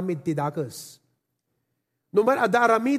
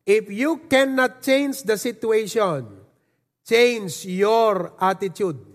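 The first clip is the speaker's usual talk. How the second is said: slow emphatic motto; slower than usual. Acted. Motto repeated for the congregation.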